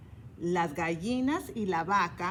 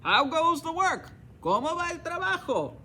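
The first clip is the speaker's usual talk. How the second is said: higher, louder lazy farmer calling; 9 semitones higher, 4 dB louder than usual. Acted. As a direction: call out demanding from bed. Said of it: "And he called".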